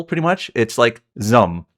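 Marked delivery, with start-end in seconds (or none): 1.2-1.6 "Zum" as just one syllable; studio name as pronounced. Shown as a demonstration. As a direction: say "Zum" in a single syllable, drawn out slowly. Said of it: "I finally learned how it's pronounced".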